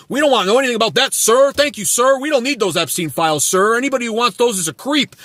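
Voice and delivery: a fawning supporter thanking Trump; mocking loyal follower. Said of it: "T D S is".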